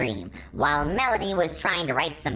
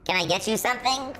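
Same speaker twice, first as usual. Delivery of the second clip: reassuring; 8 semitones higher, faster than usual. A narrator's reading. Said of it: "in a reassuring voice".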